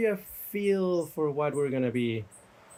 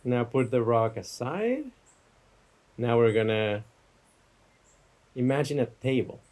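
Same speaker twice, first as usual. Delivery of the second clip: unhurried meditation guide, long pauses; guided meditation. Real, not acted. Teacher guiding listeners from table to campfire, guided meditation. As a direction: give each image room to settle. Leads a guided imagery exercise.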